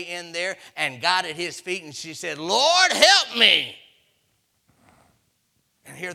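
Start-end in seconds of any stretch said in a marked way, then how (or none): 2.4-3.8 high, loud crying out; desperate plea. Retold or imitated. Woman bursting in at the king's feet, a loud desperate plea. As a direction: beg at his feet with everything. Woman begging the king, retold.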